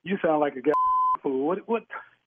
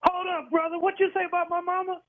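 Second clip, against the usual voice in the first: indignant surprise; 8 semitones higher than usual. Real, not acted. Caller insults his mama.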